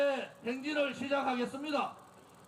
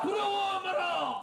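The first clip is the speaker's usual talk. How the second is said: slow drawn-out chanted slogan; roaring rallying speech; 4 semitones higher, slower than usual. Real, not acted.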